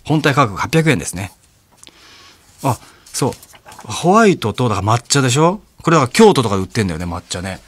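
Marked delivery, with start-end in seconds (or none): 3.8-7.0 louder, rushing with excitement; excited, too loud. Real, not acted. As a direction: get carried away and talk loud. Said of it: "ちょっと俺なんか興奮してこ-、声でかくなっちゃった". (興奮して声が大きい)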